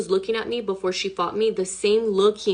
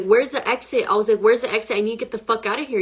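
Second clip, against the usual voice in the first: panicked; faster than usual. Retold or imitated. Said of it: "I lost it".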